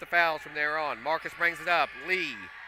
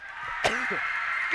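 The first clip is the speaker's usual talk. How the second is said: choking cough; 6 semitones higher than usual. Real, not acted. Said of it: "I got choked up on that one".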